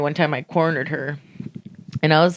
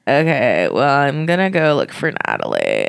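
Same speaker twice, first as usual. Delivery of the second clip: Mary; 3 semitones lower than usual. Retold or imitated. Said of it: "your Mary impression".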